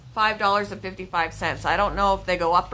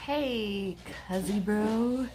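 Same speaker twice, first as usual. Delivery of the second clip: laid-back New Zealand drawl, Kiwi accent; a casual Kiwi greeting, lazily; lazy Kiwi accent; 5 dB quieter, much slower than usual. Shown as a demonstration. Showing the viewers her lazy Kiwi accent. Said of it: "I can do the lazy Kiwi accent".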